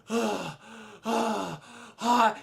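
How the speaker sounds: spent, sighing "ah"; mock exhausted exhales, slowly spaced; imitated panting. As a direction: pant like you're worn out.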